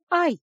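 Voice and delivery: a sudden high yelp as the wrist is squeezed; sharp cry of pain. Acted. Nanny crying out as Lisa grips her wrist, high yelp. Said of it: "невольно вскрикнула я".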